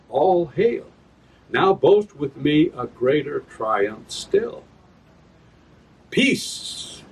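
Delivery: slow, measured stage recitation; a touch of grand theatre; verse reading. Acted. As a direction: give each line its weight. Reads another verse passage.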